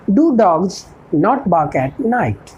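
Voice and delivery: each word spaced out for learners; a teacher dictating an English model sentence, slow and clear; slow dictation. Shown as a demonstration. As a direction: spell it out slowly like a teacher at the board. Teacher slowly dictates model question.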